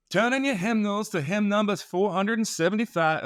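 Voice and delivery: high, sing-song Maine hymn leader announcing; deep Maine accent. Retold or imitated. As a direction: imitate a Maine church lady calling the hymn number. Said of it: "deep Maine accent".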